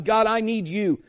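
urgent prayer. Acted. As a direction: call out your need to God.

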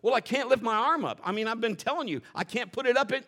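mock her exasperation, pushing it up; exasperated outburst. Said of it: "She goes".

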